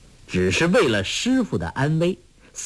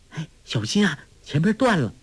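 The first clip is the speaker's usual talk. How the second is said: calling out; 5 semitones higher, faster than usual. Acted. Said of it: "黄蓉叫道".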